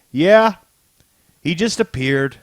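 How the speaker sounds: retold insistent answer, high loud "Yeah"; emphatic confirmation. Agents answer their boss about Doom, emphatic. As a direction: confirm it firmly, as if stating the obvious.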